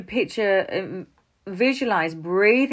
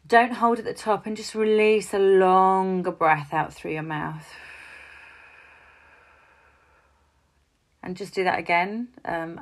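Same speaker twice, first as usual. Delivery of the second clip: guided breathing. Shown as a demonstration. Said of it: "I could run you through up breathing now".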